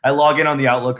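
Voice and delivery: usual speaking voice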